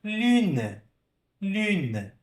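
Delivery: Lune, vowel like I with rounded lips; French U in lune. Shown as a demonstration. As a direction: model Lune slowly with the French U. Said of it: "O mesmo som, U".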